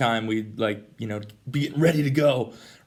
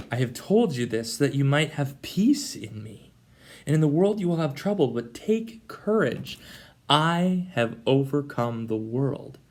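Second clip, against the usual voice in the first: gentle Jesus whisper; 3 semitones higher, slower than usual. Retold or imitated. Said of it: "he says".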